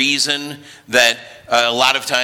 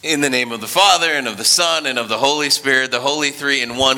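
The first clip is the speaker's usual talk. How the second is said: quick ritual invocation; brisk opening blessing; liturgical invocation; faster than usual. Acted. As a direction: rattle off the blessing.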